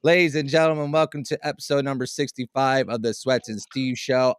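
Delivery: flat robotic monotone show intro. Acted. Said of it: "why do you sound like a robot?".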